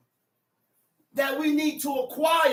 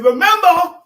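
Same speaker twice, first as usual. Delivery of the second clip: slow emphatic quote; 7 semitones higher, 5 dB louder, slower than usual. Acted. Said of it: "I said".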